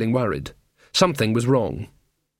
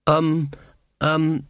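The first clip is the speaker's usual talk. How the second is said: hopeful; 4 semitones higher than usual. Acted. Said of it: "in a hopeful voice".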